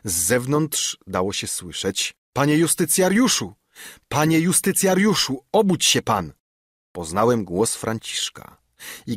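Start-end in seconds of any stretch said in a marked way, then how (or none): 2.3-3.5 wyższy, głośny, naglący głos; wołaj pilnie przez drzwi; wołanie zza drzwi. A narrator's reading. Sługa woła zza drzwi. 4.1-6.3 wyższy, głośny, naglący głos; wołaj pilnie przez drzwi; wołanie zza drzwi. A narrator's reading. Sługa woła zza drzwi.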